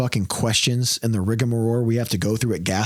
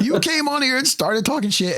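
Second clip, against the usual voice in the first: high laughing retort; 13 semitones higher than usual. Real, not acted. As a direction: laugh it back at the heckler.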